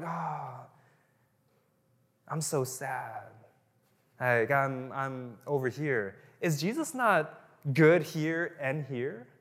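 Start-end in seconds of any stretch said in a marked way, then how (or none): 0.0-6.1 mock moping. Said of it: "And then we're like".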